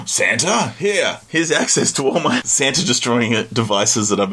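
eager scientist dad. Retold or imitated. Dad eager about Santa.

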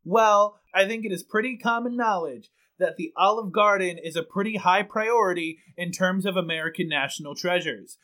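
grave reporter describing chaos; deadpan live report from the scene; field reporter voice. Acted. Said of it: "full news anchor voice".

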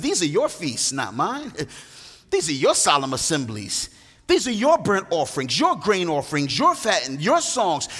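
every your leaned on and held; each your stressed and underlined. Acted. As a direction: punch each your, God speaking to the people. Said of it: "Note the emphasis of the word your".

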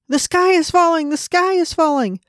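high-pitched frantic hen cry; panicked hen shout. A narrator's reading. Henny Penny hit by an acorn, frantic high cry. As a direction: squawk it in a panic. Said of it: "she started shouting".

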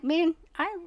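heartfelt reply. Retold or imitated. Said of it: "And I'm like".

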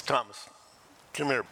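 a stern, no-nonsense call; firm summons. Shown as a demonstration. Jesus summoning doubting Thomas, mildly stern. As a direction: call him over like a talk is due. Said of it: "We need to talk / But it's loving".

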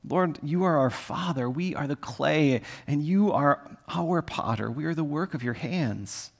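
mild tearful pleading to the Lord; tearful prayer. Shown as a demonstration. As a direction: plead quietly, close to tears. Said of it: "from anger to, to tears".

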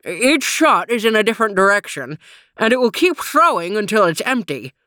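talking around a frisbee; words through a mouthful; mouth full. Acted. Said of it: "said Trooper around his mouthful".

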